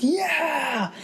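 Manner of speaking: cheering yeah. Retold or imitated. Audience cheering in the theater, high triumphant yeah. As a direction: cheer as the hero catches the saber. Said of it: "we were like".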